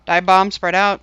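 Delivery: loud warning to the team; urgent callout. Real, not acted. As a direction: call out the order firmly. Raid leader calling out warnings.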